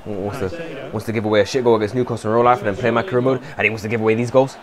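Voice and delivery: very quiet, low muttering; low grumbling. Real, not acted. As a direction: grumble resentfully to yourself. Grumbling about the player.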